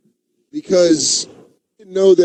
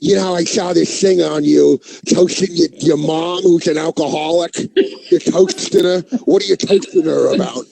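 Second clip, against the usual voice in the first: lightly imitated comic questioning a toast; a hint of another comic's incredulous heckle; Voss. Fellow comic questioning a toast to an alcoholic mom, mildly mocking impression. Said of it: "Or Voss coming in going".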